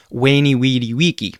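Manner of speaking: VENI, VIDI, VICI said "waynee, weedee, weekee"; w for each v in veni, vidi, vici, with hard c; Latin V as W. Shown as a demonstration. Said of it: "or the words by Julius Caesar".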